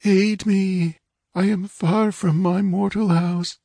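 faint ghostly plea. Acted. King's lost soul begs his sister, high and unearthly. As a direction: beg for help from a distant void. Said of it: "his voice came faintly and from far away".

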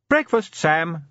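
wife calls her husband to breakfast from the doorway, calling out. A narrator's reading. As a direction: call him in to breakfast from the door. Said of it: "called Sybil from the doorway".

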